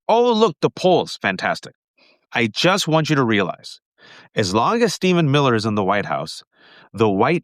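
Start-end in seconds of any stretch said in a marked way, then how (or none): 0.1-1.7 mock hopeful voice. Mocking hopeful onlookers.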